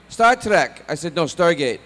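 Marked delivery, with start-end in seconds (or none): 0.1-0.8 high, loud Scottish mishearing; Scottish father. Retold or imitated. Dad mishearing son's show, loud Scottish. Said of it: "my parents have a very thick Scottish accent". 1.2-1.8 raised, insistent retort; loud correction. Retold or imitated. Son correcting dad on phone, loud insistence.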